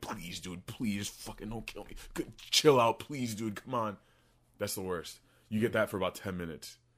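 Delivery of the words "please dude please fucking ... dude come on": imitated mumbling. Retelling a rough ride, acting out mumbling to the captain. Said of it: "I'm mumbling".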